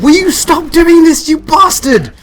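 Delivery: loud, very high-pitched, drawn-out shout; real high frustrated holler; excited, uncontrolled yell. Real, not acted. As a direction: scream it at the game in exasperation. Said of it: "I'm getting excited".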